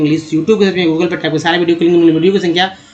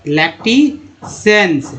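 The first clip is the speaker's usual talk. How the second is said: slow sounding out; 2 semitones higher, much slower than usual. Shown as a demonstration. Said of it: "teacher sounding out word".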